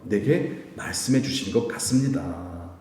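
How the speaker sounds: soft, slow, humble modesty; gently modest and unassuming. Shown as a demonstration. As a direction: say it meekly, no boasting. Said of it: "겸손해야 돼요".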